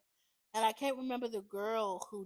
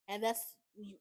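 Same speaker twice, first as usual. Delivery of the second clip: tripping over the words; stumbling stutter; 4 dB quieter than usual. Real, not acted. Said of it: "I don't know why I keep stuttering".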